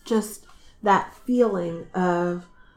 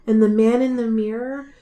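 tender storytelling. Real, not acted. Retelling Harry seeing his parents, tender storytelling. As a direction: tell it gently, letting the phrases linger. Moved retelling of mirror scene.

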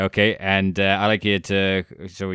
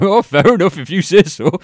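higher, louder breezy faked confidence; pretend nonchalance; 9 semitones higher, 8 dB louder than usual. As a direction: act as if nothing went wrong. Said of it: "so I pretend like".

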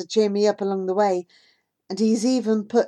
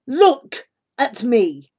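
pleading command; 5 semitones higher, 8 dB louder, much slower than usual. Acted. Boy pleading, holding her shoulders.

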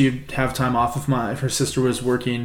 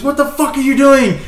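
high, louder mock scream; retold scream; 12 semitones higher, 6 dB louder than usual. Shocked woman screaming at a kid who body checked someone, imitated scream. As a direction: screech it out like the outraged woman. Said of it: "This woman screams".

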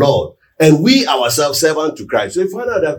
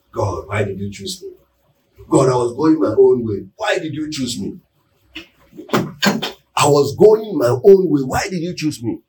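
pleading to God. Pretend. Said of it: "It's about time you cry".

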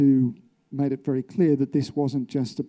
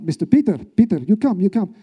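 raised, louder mock yell in broken English; imitated guard's yell; 5 semitones higher, 5 dB louder than usual. Guard calls a caged prisoner out for questioning, imitated yell. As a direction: call out like a guard summoning a prisoner. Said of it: "this bloke yells out".

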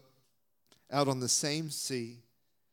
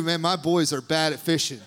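laughing; 5 dB louder than usual. Retold or imitated. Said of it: "I think he just knew".

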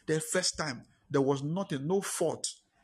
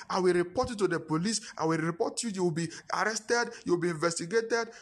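higher, heated accusing voice; angry accusation; 5 semitones higher than usual. Acted. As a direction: accuse him of theft, pitched up in outrage. Friend angrily accuses him.

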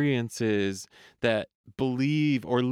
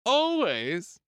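rising always; 9 semitones higher, 5 dB louder, much slower than usual. Acted. The inner voice's answer.

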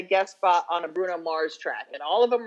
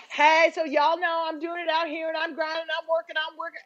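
higher, bubbly mock rapper voice; imitating a rapper; 8 semitones higher than usual. Host mimics a rapper in a news clip, higher mock voice. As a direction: parody her chatty interview voice. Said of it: "she's like".

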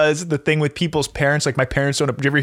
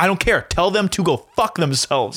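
Gary Vee; 3 semitones higher than usual. Retold or imitated. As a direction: imitate a hard-ass coach, spacing out the punchline. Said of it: "He's like".

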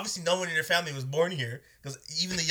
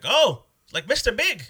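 loud, high, drawn-out imitation; mock lady's delighted recognition, pitched up and slow; lady customer; 10 semitones higher, 9 dB louder, slower than usual. Lady to the cook about his nickname, high imitation.

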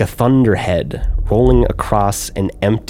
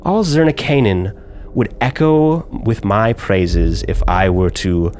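menacing drow noble. Acted. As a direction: lay out each accusation like a sentence passed. GM voices drow woman.

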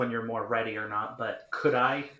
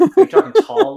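loud; 14 dB louder than usual. Real, not acted. Repeating question over laughter.

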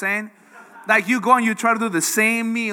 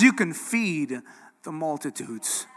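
building, louder reassurance from God; 4 dB louder than usual. Retold or imitated. God answering the doubting believer, building louder. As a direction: repeat it slower and stronger each time. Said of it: "And God would say".

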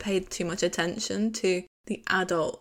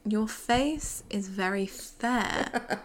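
mock British royal; much slower than usual. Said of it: "He's chatting like a British royal".

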